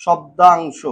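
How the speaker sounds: "শব্দাংশ" stretched out part by part; broken into pieces. Shown as a demonstration. Teacher giving students the Bangla term, "শব্দাংশ" said syllable by syllable. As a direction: draw out each syllable of "শব্দাংশ". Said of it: "ছোট ছোট টুকরো করে ভাঙবো".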